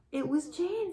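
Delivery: high, surprised realization. Acted. Alexander surprised, recognizing the lost kitten. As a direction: blurt it out in surprise.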